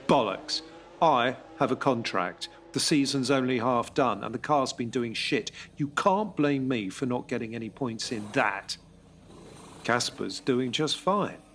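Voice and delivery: a driver refusing to accept being dropped; angry protest. Acted. Sacked driver protests angrily.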